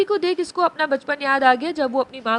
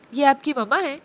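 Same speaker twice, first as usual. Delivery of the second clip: loving. Acted. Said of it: "लहजे में मोहब्बत समोए पूछा".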